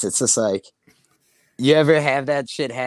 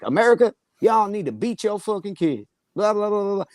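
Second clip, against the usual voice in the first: much higher-pitched comedian impression; Bernie Mac; 9 semitones higher than usual. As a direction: do a stand-up comic hollering at the crowd, pitched way up. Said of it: "He did a great Bernie Mac".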